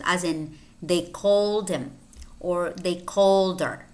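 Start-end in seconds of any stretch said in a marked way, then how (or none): 0.8-1.9 "called him" run together as call-dim; H not pronounced. Shown as a demonstration. Teacher showing weak pronouns, "him" without its H. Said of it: "in which the H is not pronounced". 2.7-3.9 "called her" run together as call-der; H not pronounced. Shown as a demonstration. Teacher showing weak pronouns, "her" without its H. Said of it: "here the H is not pronounced".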